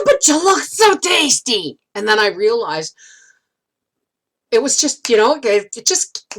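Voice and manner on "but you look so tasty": higher, slow teasing come-on; slow playful flirt; flirty one-liner. Retold or imitated. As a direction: purr it like a cheeky compliment. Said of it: "one liner came right out".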